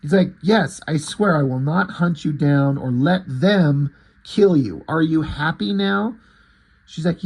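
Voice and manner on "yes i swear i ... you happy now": slow, emphatic mock promise; exasperated oath. He swears to her he won't hunt her, exasperated. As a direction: spell out the promise as if fed up. He swears under pressure, retold.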